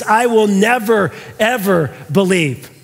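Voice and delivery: weighted double negative, slowing to the end; emphatic refusal. Retold or imitated. Preacher rendering the Greek double negative, emphatic. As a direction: lean on "never" and "ever", spaced apart. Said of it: "do you notice how emphatic he is".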